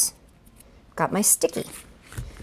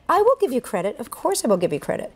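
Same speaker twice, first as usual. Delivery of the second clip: higher-pitched mock protest, then settling; playful retold insistence, starting high; retold emphatic assurance; 4 semitones higher than usual. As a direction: act out insisting to a doubting child. Retold reply to child's doubt.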